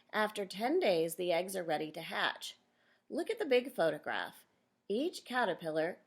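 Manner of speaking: clear, measured read-aloud for a class; reading to children. Acted. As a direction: read the picture book out to the kids. Teacher reads book to class.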